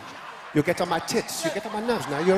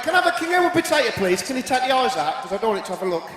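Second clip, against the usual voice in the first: fast and high, bursting out; mock eager order at the shop; eager request; 4 semitones higher than usual. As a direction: rattle it off with glee. Asking for a potato.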